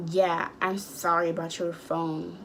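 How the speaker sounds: mock apology said with a rising, joking tune; imitating Bob acting like the apology is a joke. Bob apologizing about the phone while joking around. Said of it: "trying to be funny".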